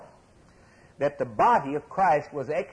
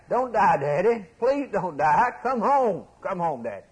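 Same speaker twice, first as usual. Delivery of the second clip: put-on a touch of tearful child pleading, a little higher and louder; hammed-up sobbing plea of children to their father; children crying; 4 semitones higher, 3 dB louder than usual. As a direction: beg like a small child clinging to his daddy. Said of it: "They cried. They wept".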